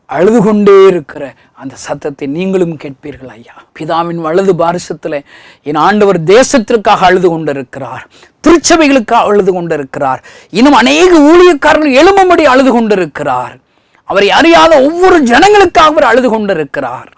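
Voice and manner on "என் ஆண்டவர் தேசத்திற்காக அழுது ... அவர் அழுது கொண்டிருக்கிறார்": much higher and louder, crying out the pleas; fiery preaching. Acted. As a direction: preach it at the top of your voice. Preaching builds again. (உரத்த குரலில் உணர்ச்சிமிக்க பிரசங்கம்)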